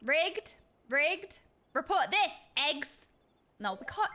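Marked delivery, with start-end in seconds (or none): 0.0-2.3 loud playful complaint; mock outrage. Real, not acted. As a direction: cry foul at the dice for fun. Joking complaint at dice roll.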